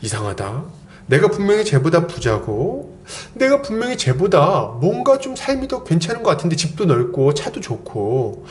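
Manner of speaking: acted, questioning inner monologue; puzzled musing. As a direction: mull it over like a baffled onlooker. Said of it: "이런 의문이".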